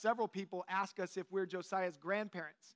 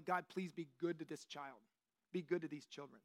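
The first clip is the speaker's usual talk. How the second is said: softer, mildly earnest plea; fervent blessing; 4 semitones lower, 4 dB quieter than usual. Acted. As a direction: ask God gently on a child's behalf. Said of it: "He says he blessed them fervently".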